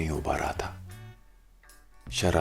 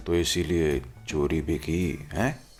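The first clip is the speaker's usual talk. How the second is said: stern. Acted. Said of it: "head साहब ने कड़क आवाज में".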